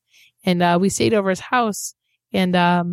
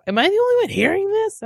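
pitched-up mock puzzled friend; imitating a friend; 13 semitones higher than usual. Host retelling a friend's question at the house, high mock puzzlement. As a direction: play the Canadian friend, lightly teased. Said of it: "so he's like".

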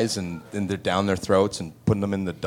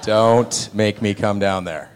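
mock dad threat; slower than usual.

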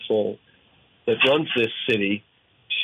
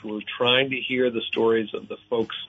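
upbeat radio host read; radio announcer. Acted.

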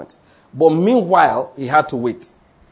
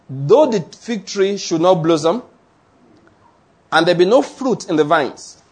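scripture reading. Acted. Reads Habakkuk scripture aloud.

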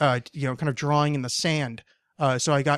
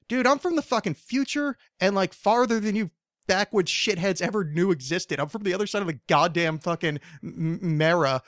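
mock rant at the pharaoh; 3 semitones higher than usual. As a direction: vent at those backwoods laughers, playfully.

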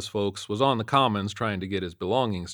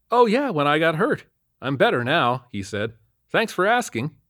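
higher, louder cheerful colleague; Dwyer's casual voice; 7 semitones higher, 5 dB louder than usual. A narrator's reading. Dwyer chatting to Lakely, higher and louder. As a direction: brush it off breezily.

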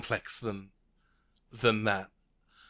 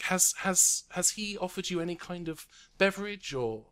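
voiced Sisterhood official; 9 semitones higher than usual. Karai voiced by GM.

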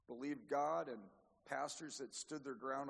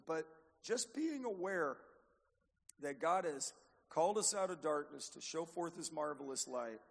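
ordinary delivery

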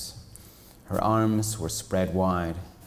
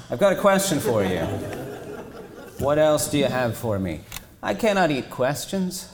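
giant turtle voice; 5 semitones higher, 3 dB louder than usual. Acted. Turtle voice performed, louder.

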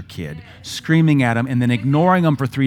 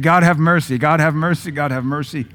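mock plea; 2 semitones higher, 5 dB louder than usual. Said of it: "So that's why he said".

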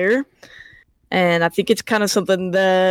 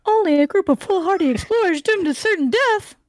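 high shrill monster mouth; a lightly voiced shrill mouth; Magic Mouth voice; 10 semitones higher than usual. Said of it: "we're gonna do the Magic Mouth text".

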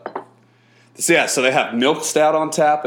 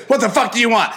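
rude server impression; 6 semitones higher than usual. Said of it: "You can't greet a table like this".

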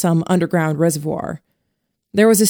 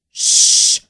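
breathy whispered shh; hushed shush; 6 dB louder than usual. A narrator's reading. Mary hushing the captured boy, whispered. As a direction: hush him without a sound.

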